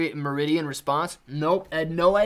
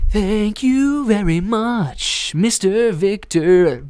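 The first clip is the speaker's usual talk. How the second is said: hammed-up thanks; 5 semitones higher, 8 dB louder, much slower than usual. Streamer hamming thanks to donor.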